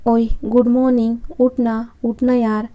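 lightly voiced talking alarm calling someone awake. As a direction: play the gimmicky wake-up alarm, mildly hammed. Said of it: "तो unique alarm".

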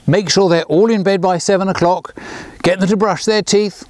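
a hint of a fussy grandma listing chores; mild instructing tone; bossy grandma orders. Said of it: "giving poor Grandpa his orders".

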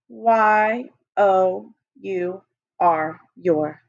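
Y O U R spelled very slowly, letter by letter; slow spelling. Shown as a demonstration. Teacher leading the class in slowly spelling your. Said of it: "let's write your".

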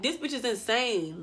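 quiet laughing aside; laughing disbelief. Retold or imitated. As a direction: chuckle in disbelief. Laughing at the stomping girl.

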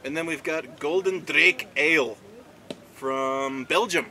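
slow, put-on Scottish accent. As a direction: say it like a Scotsman. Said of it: "I don't know why I did a Scottish accent".

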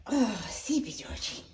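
tender coo. Real, not acted. Slow cooing at sleepy pet.

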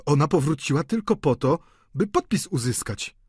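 earnest warning to a lover; suspicious young man. A narrator's reading. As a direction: press the accusation pointedly. Eugène confides suspicion to Delphine.

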